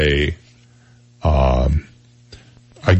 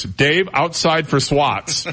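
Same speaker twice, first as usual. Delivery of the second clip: drawn-out mock teacher threat, laughing; slow stern teacher with a laugh; 7 semitones higher, much slower than usual. Host recalling the teacher ordering Dave out, slow mock sternness. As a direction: act the teacher calling a kid out, half laughing. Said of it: "it was".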